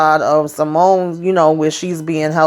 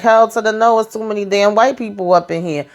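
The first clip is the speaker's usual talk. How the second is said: sassy refusal; 5 semitones higher than usual. Retold or imitated. Nancy refusing the hospital.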